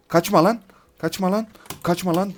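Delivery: high, urgent calls; calling after fleeing enemy. Real, not acted. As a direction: yell at them not to run.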